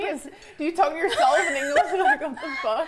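high, loud, laughing disbelief; laughing incredulously. Real, not acted. Teasing a friend about the accent, laughing loudly.

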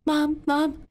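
put-on a child calling after the bee. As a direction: call out as it flies away.

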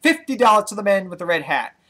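loud, high, rapid auction calling; auctioneer. Retold or imitated. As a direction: rattle off bids like an auctioneer. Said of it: "I had to act like an auctioneer going".

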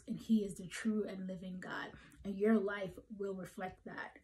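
soft whisper, hushed and intense; whispered emphasis. Real, not acted. Preacher to his flock, hushed whisper. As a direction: lean in and breathe it.

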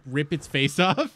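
slow, laughing through the words. Real, not acted. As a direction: chuckle it out, slowly. Gleeful joke about stego attack.

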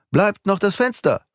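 high, hurried cry; excited, pitch leaping up; urgent call. A narrator's reading. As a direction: call out a last hope. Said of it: "rief Beautrelet".

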